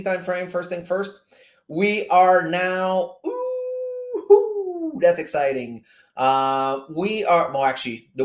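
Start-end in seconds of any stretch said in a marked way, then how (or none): 3.3-5.0 long, very high drawn-out ooh; excited ooh. Real, not acted. Streamer thrilled by the weekly chart, excited high ooh. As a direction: let out a high, stretched whoop.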